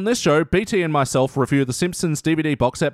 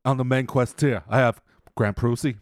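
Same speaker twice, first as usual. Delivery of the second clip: a touch of tough-guy actor voice; lightly done, low-key screen gangster; hint at a famous actor's delivery; De Niro; 4 semitones lower than usual. Acted. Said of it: "how good is your De Niro?".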